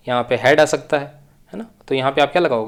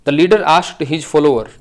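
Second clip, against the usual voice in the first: slow read-aloud; 5 dB louder, much slower than usual. Shown as a demonstration. Teacher reads the question aloud.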